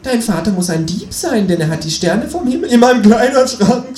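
frantic high-pitched mock despair; desperate scream. A narrator's reading. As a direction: scream it out as a hammed-up confession. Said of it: "schrei ich verzweifelt".

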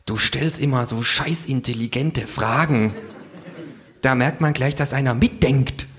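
Känguru. Acted. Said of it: "fragt das Känguru".

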